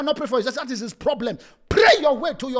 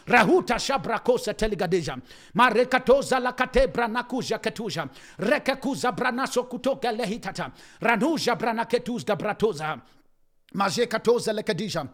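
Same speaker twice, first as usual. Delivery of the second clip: speaking in tongues; 2 semitones lower than usual. Acted. Quiet tongues.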